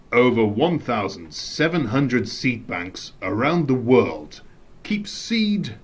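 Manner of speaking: measured, deliberate dramatic reading; acting voice. Shown as a demonstration. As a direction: read it out like a documentary narrator. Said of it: "that's my acting voice".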